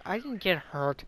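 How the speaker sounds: slow, lightly imitated tough-guy denial; acting tough guy. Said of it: "acting like the tough guy".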